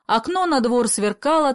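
ordinary delivery, nothing marked

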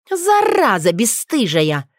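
angry curse. Acted. Werewolf angry retort.

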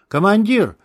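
loud call across a clearing. A narrator's reading. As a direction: call him loudly. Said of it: "позвал".

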